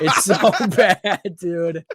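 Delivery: laughs through the words; half laughing at the memory. Real, not acted. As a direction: giggle as you say it. Laughing retelling own text.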